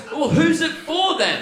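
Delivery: high, loud, stretched-out disbelief; incredulous comeback. Retold or imitated. Baffled bartender challenges a customer about Foster's, incredulous. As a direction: demand an answer, voice jumping right up.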